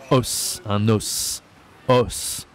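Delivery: os with an open 'aw' vowel, s sounded. Shown as a demonstration. Teacher modelling French bone word for learners, open O in os. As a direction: say os clearly with open O. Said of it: "La voix est un peu plus grave".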